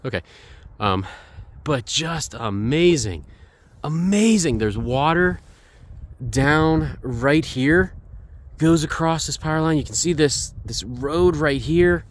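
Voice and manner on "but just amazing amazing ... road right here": slow, stretched-out amazement; excited. Real, not acted. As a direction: marvel at the view, lingering on key words. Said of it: "I am excited".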